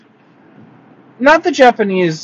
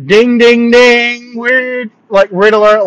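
high, loud, drawn-out alarm chime; mock alarm; 7 semitones higher, 5 dB louder, slower than usual. Traveler flagging the driver's weird comment, mock alarm. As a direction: sound the warning like a ringing bell.

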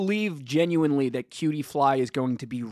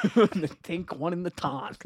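laughing. Real, not acted. Rhyme repeated through laughter.

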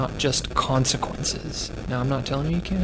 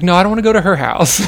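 son's voice; 5 semitones higher, 9 dB louder, faster than usual. Retold or imitated. Child voiced in father's story.

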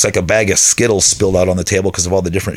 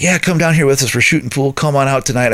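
imitating the buddy; 5 semitones higher than usual. Buddy calling him to come out.

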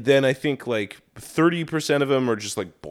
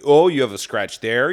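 loud, sugary mock concern; fawning cop; 7 dB louder than usual. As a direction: gush over the scratch like a toady cop. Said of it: "they trip over themselves to go like".

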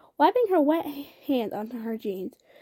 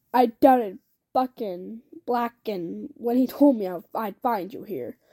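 softening. Acted. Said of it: "his voice softening".

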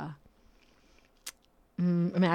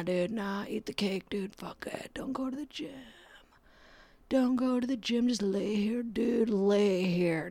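depression voice. Acted. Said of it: "That's my depression voice".

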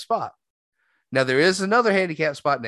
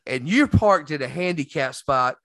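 put-on angry old veteran; 5 semitones higher, 3 dB louder than usual. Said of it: "And he was like".

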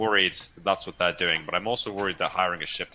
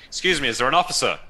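louder and higher, calling over the crowd; 6 semitones higher, 6 dB louder than usual. Acted. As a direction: raise the voice to get an officer's attention. Calls out past the soldiers.

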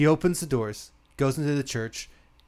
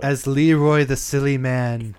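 laughing; 6 dB louder than usual. Real, not acted. Laughs while naming character.

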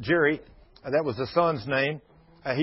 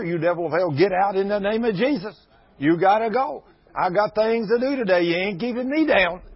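rebuking the devil; 4 semitones higher, 4 dB louder than usual. Retold or imitated. Preacher acts out rebuking the devil.

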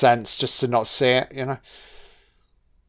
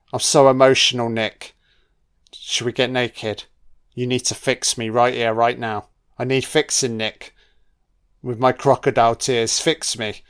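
mock seductive Catherine. Voicing Catherine seducing Nick.

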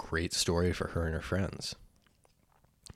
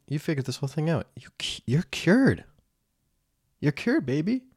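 whispering devil voice; 8 semitones higher, 4 dB louder than usual. Pretend. Mock self-congratulation, whispered.

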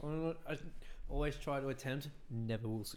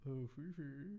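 posh English; 7 dB quieter than usual. Shown as a demonstration. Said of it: "a proper English?".

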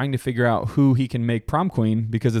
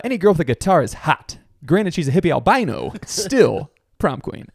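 higher-pitched jock impression; imitated movie jock; 5 semitones higher than usual. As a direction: play the movie character in a raised voice. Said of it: "and then he's like".

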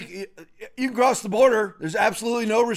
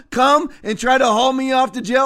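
defiant, with "try" hit hard; stress on TRY; 4 semitones higher, 4 dB louder than usual. Real, not acted. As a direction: punch the word "try" as a challenge. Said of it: "I emphasize the word try".

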